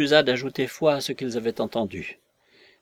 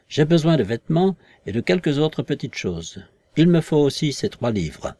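louder, insistent voice; invisible man demanding; 5 dB louder than usual. Acted. Invisible man demands his wardrobe from the visitors, louder and insistent. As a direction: press them hard about the missing clothes.

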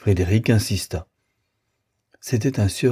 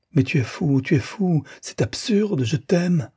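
desperate pleading, climbing much higher; 9 semitones higher than usual. A narrator's reading. Rosanette catching Frédéric in the hall, high desperate pleading. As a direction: beg him to stay, voice rising on each phrase. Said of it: "Elle le suppliait".

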